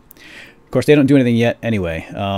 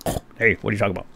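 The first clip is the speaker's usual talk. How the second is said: voicing a villager; 5 dB quieter, much faster than usual. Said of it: "Then he's like".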